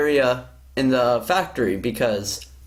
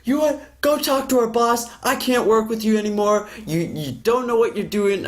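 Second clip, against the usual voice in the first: higher, hammed-up angry outburst; mock explosion; 5 semitones higher than usual. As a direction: replay his rant with a raised voice. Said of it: "he just explodes".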